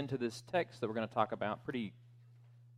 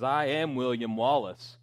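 put-on rally the troops like Braveheart, but no Scottish accent; William Wallace rallying speech; 2 semitones higher, 4 dB louder than usual. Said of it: "I'm trying to not do the accent".

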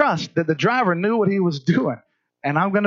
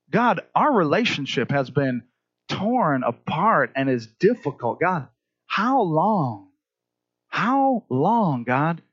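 slow, drawn-out "how long" prayer; weary plea; slower than usual. Acted. Believer prays over a broken relationship, weary pleading. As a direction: ask God wearily, stretching out the words.

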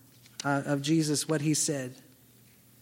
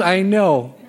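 a laughing, louder I know; 7 dB louder than usual. Retold or imitated. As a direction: laugh through the words, amused. Friend laughs off the objection.

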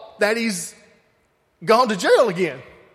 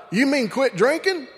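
higher-pitched, mildly alarmed imitation; mock scared; 5 semitones higher than usual. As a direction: play a scared guy asking back. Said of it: "he was all scared".

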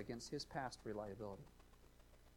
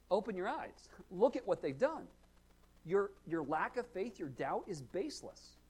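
firm, higher-pitched urging; emphatic counselor; 5 semitones higher than usual. Acted. Counselor confronting a doubter in that moment, emphatic and insistent. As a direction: press the point on someone who doubts.

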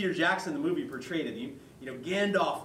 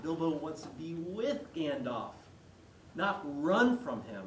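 ordinary delivery

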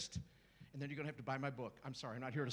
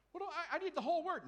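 laughing demand; 12 semitones higher, 6 dB louder than usual. Acted. Believer demanding more.

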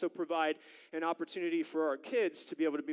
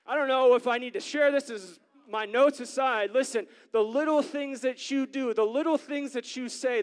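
raised, insistent preacher's pitch; preaching; 4 semitones higher than usual. Real, not acted. Preacher urging congregation that little things matter, preaching. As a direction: drive the lesson home from the pulpit.

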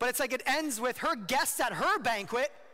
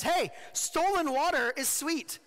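slow, coaxing, higher temptress voice; tempting Lady Folly; 7 semitones higher, 3 dB louder, slower than usual. Acted. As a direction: draw the word stolen out slyly. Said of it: "she says".

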